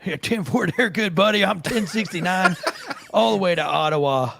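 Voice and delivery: lightly voiced trucker signing off; CB radio trucker. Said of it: "I just did that whole thing without my trucker hat on".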